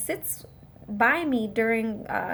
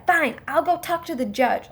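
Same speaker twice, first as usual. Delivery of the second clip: a touch of huffy anger; raised, mildly angry retort; mock huffy anger; 4 semitones higher than usual. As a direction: imitate someone storming off in a huff. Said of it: "got all angry".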